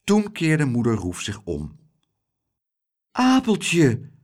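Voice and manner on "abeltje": his name on a sigh. Acted. Mother seeing her lost son, sighing. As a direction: breathe the name out in relief. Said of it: "zuchtte ze".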